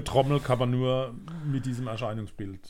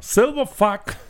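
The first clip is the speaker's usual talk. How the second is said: silly mock title; 8 semitones higher, 6 dB louder, slower than usual. Mock rename of song title.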